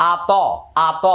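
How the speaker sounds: "আ ত" with the second syllable sounded as a full open vowel; wrong qalqalah. Shown as a demonstration. Teacher warning students off a mistake, "আ ত" with a full vowel for the echo. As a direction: say "আ ত" without the upward echo, as two separate syllables. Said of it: "এরকমটা যেন না হয়".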